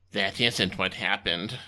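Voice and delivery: low, slow deadpan underling; flat, timid sidekick; meek assistant Timmy. Acted.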